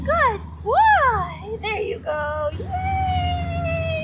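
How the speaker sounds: high, loud squealing praise; big party praise. Real, not acted. Trainer celebrating the dog's trick, high and excited. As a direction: throw him a party with your voice. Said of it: "I'm giving him a big party about it".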